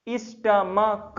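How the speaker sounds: "स्टमक" slowly, in separated syllables, ending in k; syllable-by-syllable pronunciation. Shown as a demonstration. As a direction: sound out "स्टमक" slowly for learners. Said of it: "क्या बोलते हैं ना इसको?". ("स्टमक" धीरे-धीरे तोड़कर, अंत में क)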